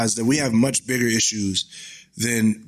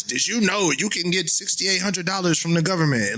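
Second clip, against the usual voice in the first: Donald Trump voice; 4 semitones higher than usual. Retold or imitated. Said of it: "Donald Trump's voice".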